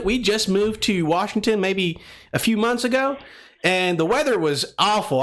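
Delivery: a friendly Southern caller, lightly done. Pretend. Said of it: "we'll go with the Southern voice today".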